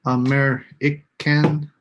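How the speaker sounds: "American" said slowly, weight on the second syllable; stress on AM. Shown as a demonstration. Teacher modelling stress in "American" for students, slowly. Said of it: "there's a stress syllable in each one".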